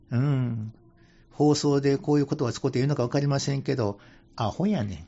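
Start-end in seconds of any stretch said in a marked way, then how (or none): 4.4-5.1 Kansai dialect. Shown as a demonstration. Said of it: "関西風に言うてみましょうかね".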